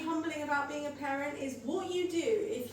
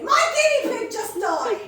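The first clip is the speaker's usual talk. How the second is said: put-on blurted child's news; 9 semitones higher, 12 dB louder than usual. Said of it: "first thing my kids say".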